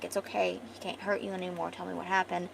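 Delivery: softly voiced reassurance; comforting. Elf reassuring crying Delph after her dream, gentle comfort. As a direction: quietly coax her to open up. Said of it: "he's comforting her, reassuring her".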